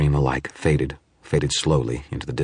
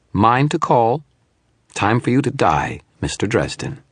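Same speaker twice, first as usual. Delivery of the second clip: lightly voiced, gloating shadow; 8 semitones higher, 3 dB louder than usual. Hologram gloating to Dresden as the demon comes, lightly voiced gloating. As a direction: savour the threat.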